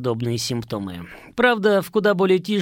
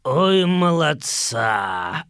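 mocking praise; much slower than usual. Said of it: "отозвался со своего табурета майор Бабр".

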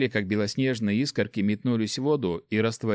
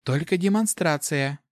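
higher-pitched, firm female character; brisk cut-off in a higher voice; curt condition; 6 semitones higher than usual. A narrator's reading. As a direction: lay down the limit. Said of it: "отрезала та".

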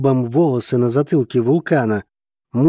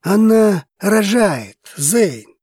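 slow, raised-pitch patient explanation; calm explanation; 7 semitones higher, 3 dB louder, much slower than usual. A narrator's reading. Dragos to terrified husband, measured calm. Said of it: "продолжал спокойно говорить Драгос".

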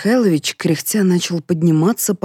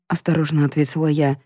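plain reading voice

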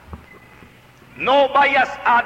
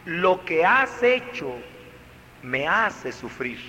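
gentle reproach; 3 semitones lower than usual. Shown as a demonstration.

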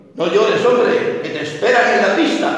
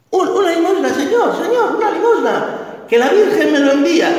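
put-on begging little girl; 9 semitones higher than usual. Orphan girl begging the clown for alms, high and pleading. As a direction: beg for alms like a small freezing girl.

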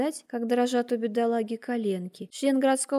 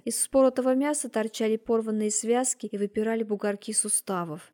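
plain reading voice

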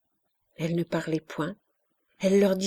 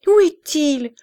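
anxious whisper; 9 semitones higher, 9 dB louder than usual. A narrator's reading. Enfant cherche le docteur.

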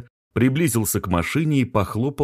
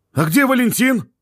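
surprised question; 5 dB louder than usual. A narrator's reading. Startled stranger asks.

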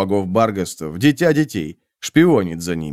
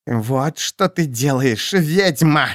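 hoarse rasp; 5 semitones higher, much slower than usual. A narrator's reading. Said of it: "прохрипела она".

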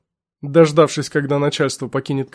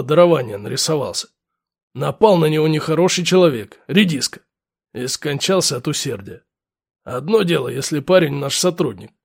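gruff lieutenant; 2 semitones lower than usual. Acted. Lieutenant voiced.

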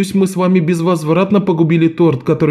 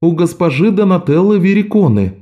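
sweet smiling; 6 semitones higher than usual. A narrator's reading. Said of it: "с милой улыбкой ответил Жан".

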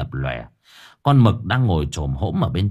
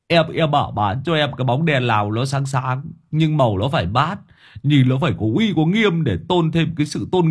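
higher, defensive servant voice, stumbling at first; whiny excuse-making; 5 semitones higher than usual. Acted. Long excuses himself to his furious master, higher and whiny. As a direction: plead it's not your fault. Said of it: "vừa giải thích".

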